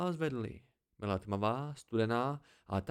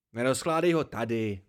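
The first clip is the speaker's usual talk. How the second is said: put-on old hermit calling out, louder; mild exclaimed protest; 6 dB louder than usual. A narrator's reading. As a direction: raise your voice to stop him, short of screaming. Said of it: "vykřikl stařec". (mírně zvýšený hlas, starcův výkřik)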